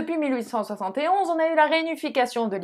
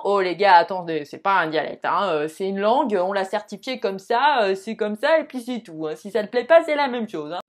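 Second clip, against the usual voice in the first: mock UNESCO official; 4 semitones lower than usual. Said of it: "l'unesco qui va t'envoyer un email disant".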